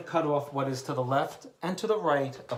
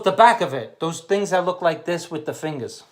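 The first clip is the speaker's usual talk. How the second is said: frustrated retold wife; 4 semitones higher, 13 dB louder than usual. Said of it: "She was frustrated".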